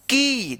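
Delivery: short की, clipped vowel. Shown as a demonstration. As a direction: say की with a quick short ee. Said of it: "इसको आप छोटा उच्चारण कर, कीजिएगा".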